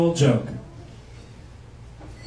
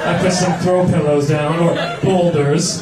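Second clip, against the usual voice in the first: hammed-up host. Acting host with lava floor.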